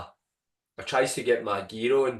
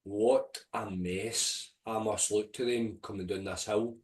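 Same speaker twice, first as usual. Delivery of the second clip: inner thoughts. Retold or imitated. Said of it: "I remember thinking".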